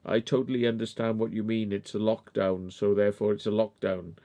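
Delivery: soft, mock-polite compliance; quiet sarcastic yes-officer; sarcastic agreement. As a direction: humour the officer with mock patience. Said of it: "I was like".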